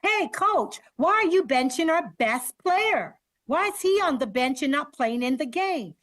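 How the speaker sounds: high, pleading call to the coach; students calling out to coach. Retold or imitated. Students protesting to the coach about benching, high call. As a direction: call out for your best player. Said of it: "students who often said".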